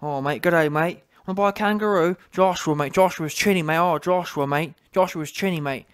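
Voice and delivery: lightly imitated Kiwi trash talk; a hint of caricatured New Zealand accent; mock New Zealand accent. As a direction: mimic a chatty New Zealand boxer. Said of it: "he was giving it a good talk".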